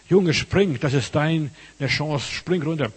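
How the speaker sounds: loud high call to jump; urgent shout from below. Retold or imitated. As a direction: yell up to the boy on the balcony. Firemen calling up to boy.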